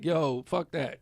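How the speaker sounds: rough African accent impression; a clumsy try at an African accent; bad African accent. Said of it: "African accent? ... I think that was horrible".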